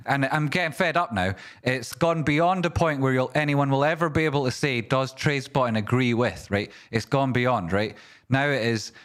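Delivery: high, heated and insistent; fed up rant. Real, not acted. Streamer sick of chat comparisons, heated rant. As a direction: hammer home how sick of it you are. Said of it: "And I'm sick of it".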